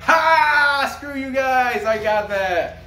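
high, loud triumphant crow, easing off; gloating shout. Retold or imitated. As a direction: crow over them, starting with a loud high "Ha!". Retold gloating at the chat.

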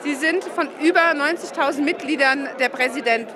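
normal talking voice

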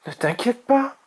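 put-on high young dragon reassurance; reassuring. A narrator's reading. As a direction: reassure her in a high little voice. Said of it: "rassura Azuro".

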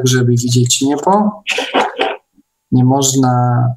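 ordinary delivery

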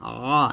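"আ" held with a mid-throat squeeze; pressed ain. Shown as a demonstration. Teacher demonstrates the pressure, squeezed "আ". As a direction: press hard on a long "আ". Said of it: "এরকম চাপ দিতেছি".

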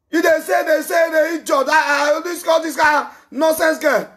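exasperated shouting at the caller; angry shout. Real, not acted. Streamer yells at a caller who shouted, exasperated. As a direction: yell your frustration at him.

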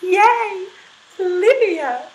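"Yay, Olivia!" started smoothly and gently, high; smooth onset. Shown as a demonstration. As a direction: glide into the voice with no attack. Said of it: "Our smooth".

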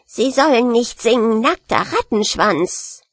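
furious rat's spitting protest; wütendes Fauchen. Acted. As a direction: protest crossly as an offended rat. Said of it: "fauchte die Ratte wütend". (wütend fauchende Ratte)

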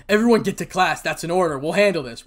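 loud, firm command; commanding order. Acted. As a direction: take charge of the whole crowd. Teacher orders everyone to class.

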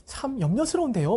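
imitating 오은영. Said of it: "막 이렇게 한단 말이야".

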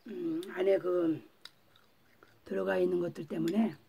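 chewing while talking; eating between words; mouth full. Real, not acted. Seen 0: bites soy ham at -5, keeps chewing while talking, holding more.

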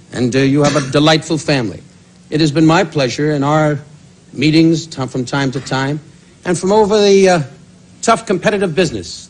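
hammed-up heartfelt tribute voice; mock sincere tribute. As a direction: lay the false heartfelt praise on thick.

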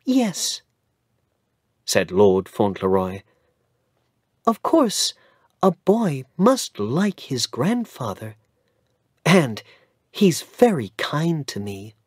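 put-on high, eager child's voice; boy telling the lawyer he will like his grandfather; little boy Cedric. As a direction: answer brightly as a young boy.

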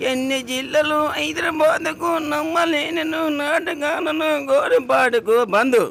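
high, slow shouting rant. Real, not acted. Old man shouting his rant slowly at the vlogger. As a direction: shout it out, dragging each word. Ranting at the interviewer.

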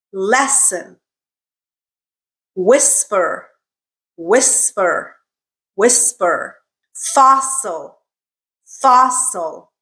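Lesson, Whisper, Fossil modelled with a clear S mid-word; careful repeat-after-me words with pauses; middle-S drill. Shown as a demonstration. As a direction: say each word alone, first syllable stressed, S distinct in the middle. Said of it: "S sound is in the middle".

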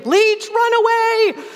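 high, slow mock panic cry; inner scream. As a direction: wail the mind's panic. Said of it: "my mind was still screaming".

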